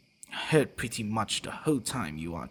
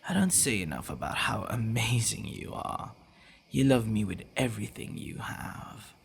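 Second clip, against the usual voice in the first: tender whisper. Acted. Tender praise of fiancée.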